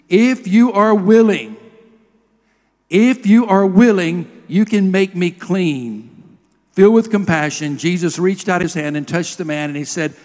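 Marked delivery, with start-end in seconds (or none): 0.1-6.1 1 begging leper. A narrator's reading. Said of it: "begged him on his knees".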